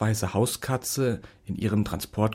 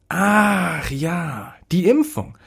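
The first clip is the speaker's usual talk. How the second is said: higher, bright afterthought; lightly voiced doctor, remembering; 7 semitones higher, 3 dB louder, much slower than usual. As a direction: vet suddenly recalling something.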